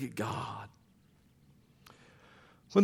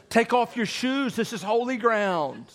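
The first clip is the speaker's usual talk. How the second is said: voice of God; 7 semitones higher, 5 dB louder than usual. Acted. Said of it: "But the bush says".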